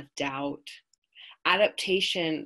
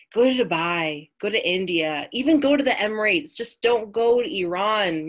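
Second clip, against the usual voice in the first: louder, pressing dad's warning; a parent's emphatic, raised-voice plea; insistent retold plea; 4 semitones higher, 7 dB louder than usual. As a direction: urge her hard not to go. Dad urging her, retold insistently.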